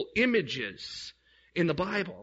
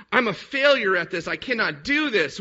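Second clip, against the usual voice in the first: despairing outburst; 4 dB louder than usual. Retold or imitated. Distressed convert on the steps.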